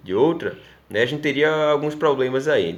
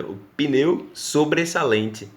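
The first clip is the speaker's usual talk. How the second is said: "pneu sobressalente" said slowly and clearly; teacher repeating a Portuguese term slowly; slow demonstration; 3 semitones higher, slower than usual. Shown as a demonstration. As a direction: spell out "sobressalente" slowly for the class. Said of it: "eles falam pneu sobressalente".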